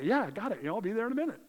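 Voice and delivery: high, lightly mimicked promise to parents; placating brush-off. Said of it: "did I say that to my mom and dad".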